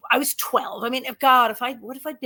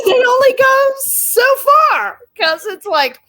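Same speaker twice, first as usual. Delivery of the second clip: high, loud, slow laughing squeal; can barely get it out for laughing; words squeezed through laughter; 12 dB louder, slower than usual. Real, not acted. Laughing at timid stalkers.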